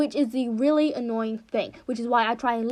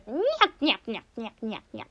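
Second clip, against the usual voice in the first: imitated nyah cackle. Shown as a demonstration. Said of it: "It's my favorite thing in the world".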